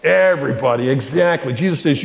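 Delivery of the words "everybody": slow, even We should love everybody; slow repeat-after-me. Shown as a demonstration. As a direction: lead the class, word by word. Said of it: "Say it".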